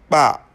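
"Ba" as an implosive with both lips brought together; bilabial implosive. Shown as a demonstration. Teacher introducing a Pulaar consonant, bilabial implosive "Ba". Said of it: "réalisée par rapprochement des deux lèvres".

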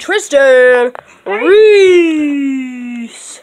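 slow drawn-out name call; ring announcer. Pretend.

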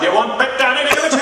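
newscaster voice off duty. Acted. Newscaster at home asking a partner, lightly mocked news rhythm. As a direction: pose it like a hint of a reporter. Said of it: "they drive home from the station like that".

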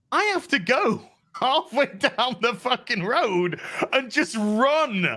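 slow, drawn-out whiny complaint; slow complaining actor. Retold or imitated. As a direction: moan about the stunt, dragging it out. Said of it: "It's like".

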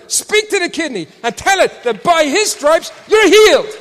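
rising to a high, loud preaching climax; preaching at full force. Retold or imitated. Preacher charging a mother to command healing, building to a shout. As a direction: build from firm to a roaring proclamation.

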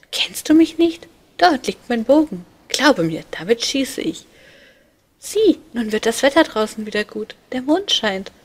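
put-on high, loud, boastful child's voice; cheeky little boy. A narrator's reading. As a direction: brag like a mischievous little cupid. Amor voiced by narrator. (hohe, laute, prahlerische Kinderstimme)

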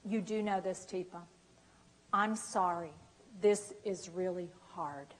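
soft, sincere, reassuring voice; voiced calm apology for the struggling person; gentle apology. Shown as a demonstration. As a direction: comfort them gently. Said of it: "say, say my words".

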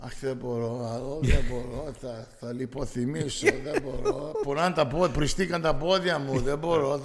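a hint of a moaning aunt at the wedding; lightly voiced whining auntie; complaining Greek aunt. Η θεία παραπονιέται στον γάμο, ελαφρύ γκρίνιασμα. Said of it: "when I'm doing that character, I'm sounding like her".

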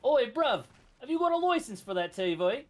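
attempted British street accent. Shown as a demonstration. Friend repeating the line on request, decent attempt at a British accent. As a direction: copy the mock British "Oi, bruv" accent. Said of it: "Can you do a British accent?".

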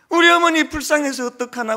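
loud, high wailing in Jeolla dialect; retold wailing lament. Son mourning his mother in Jeolla dialect, loud wail. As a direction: cry out for the poor mother. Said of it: "전라도 말로".

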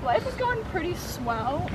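mock-contented, drawn out; wry sarcasm. Real, not acted. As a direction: understate it with dry irony. Wry comment after car was smashed.

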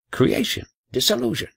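a teacher's mock-grand reveal; dramatic pair of words. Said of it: "he said".

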